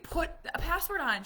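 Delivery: loud, high yell breaking into laughter; urgent plea through laughter; frantic laughing yell. Retold or imitated. Mom urging friend to lock account, laughing yell.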